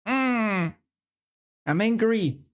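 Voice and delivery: put-on angry pose; play-acted anger. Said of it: "Uh, angry".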